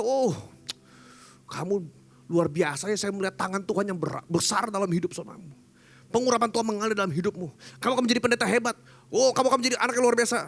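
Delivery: butter them up, hammed-up; sweet flatterer. Flatterer praises you. (penjilat manis yang berlebihan)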